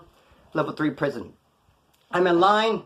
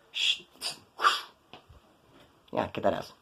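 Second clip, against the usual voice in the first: low, much softer, almost whispered urging; hushed egging on; 7 semitones lower, 6 dB quieter than usual. Retold or imitated. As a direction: lean in and urge him on under your breath. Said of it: "No, it's like".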